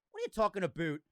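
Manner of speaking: lightly put-on Minnesota accent. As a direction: ask it in a mock Minnesotan lilt. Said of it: "the Minnesota".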